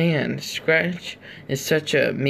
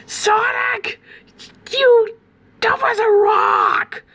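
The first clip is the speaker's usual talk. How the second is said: much higher, cartoon rooster shout; imitating Scratch yelling; slower than usual. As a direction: bellow the insult like a squawking cartoon rooster. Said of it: "what is that stupid clucker doing".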